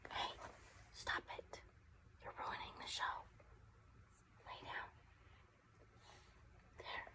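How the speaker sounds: firm whisper telling the dog off; urgent whispered reprimand so the recording isn't spoiled; whispered scolding. Real, not acted. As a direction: hiss at the dog to quit it.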